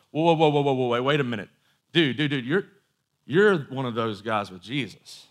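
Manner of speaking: mock-startled call-out; acted startled accusation. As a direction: play someone stopping a man mid-step on recognizing him. Servant girl confronts Peter in retelling.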